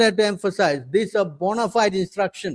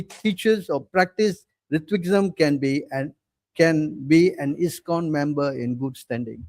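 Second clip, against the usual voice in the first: solemn reading; 3 semitones lower than usual. Acted. Reading out the opponents' resolution.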